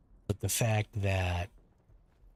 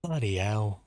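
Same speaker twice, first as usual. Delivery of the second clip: British accent. Shown as a demonstration. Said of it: "I don't do a very good British accent".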